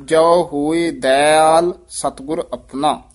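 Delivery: ਦਇਆਲ as "dai-aal" within the line; weight on ਦਇਆਲ. Shown as a demonstration. Teacher models the whole line, ਦਇਆਲ stressed at the start. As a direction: recite it pressing the "dai" of ਦਇਆਲ. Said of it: "ਜ਼ੋਰ ਪਾ ਕੇ ਉਚਾਰਨ ਕਰਨਾ".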